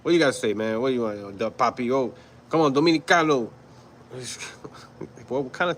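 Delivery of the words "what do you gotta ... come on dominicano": imitating someone faking a Dominican accent; lightly put-on Dominican accent, punched at the end; mock Dominican accent. Camp leader mocking a New Yorker, fake Dominican accent. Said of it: "trying to mock me like I have an accent".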